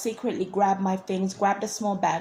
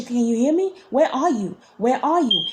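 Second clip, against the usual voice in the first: imitated calling voice; 4 semitones higher, 4 dB louder than usual. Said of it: "she's like".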